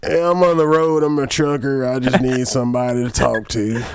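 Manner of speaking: high-pitched hick caller; redneck trucker voice. Retold or imitated. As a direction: play a lonely redneck trucker. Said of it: "It's some redneck calling".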